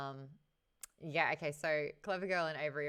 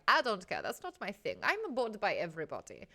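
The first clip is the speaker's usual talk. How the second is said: Zoya; 3 semitones higher, 4 dB louder than usual. Acted. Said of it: "where Zoya's just like".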